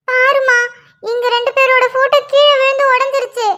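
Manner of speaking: upset, mildly tearful complaint. Acted. Daughter shows mother the broken photo, tearfully. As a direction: tell it with a touch of crying. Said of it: "ஏம்மா அழுவுற?".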